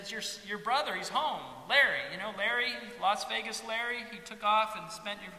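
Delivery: high, loud, breathless good-news voice; excited servant. Acted. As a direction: blurt out the news to the older son. Servant announces the brother's return.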